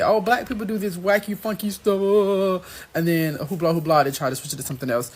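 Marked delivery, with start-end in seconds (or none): 0.0-2.9 mocking quote. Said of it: "white people try to say".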